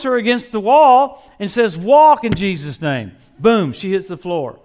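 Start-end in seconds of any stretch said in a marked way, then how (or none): 1.8-3.1 slow booming command to rise; commanding shout. Retold or imitated. Wigglesworth commanding the dead woman, booming.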